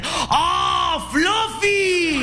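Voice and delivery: high delighted call; light imitation of the thrilled officer; excited greeting.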